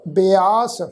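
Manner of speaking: "ਬਿਆਸ" as bi-aas, short i then long aa; demonstrated pronunciation. Shown as a demonstration. Teacher showing how to pronounce the word, careful syllables. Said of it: "ਇਸ ਸ਼ਬਦ ਦਾ ਉਚਾਰਨ ਕਰਾਂਗੇ ਜੀ".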